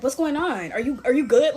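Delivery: lightly imitated worried boyfriend; mildly concerned. Boyfriend to her over the phone, mildly imitated concern. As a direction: quote him checking in, a touch urgent. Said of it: "he sounds so concerned over the phone".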